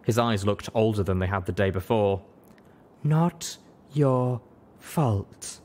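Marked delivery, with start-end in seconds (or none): 3.0-5.6 gentle insistence. Acted. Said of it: "Velvet Remedy insisted".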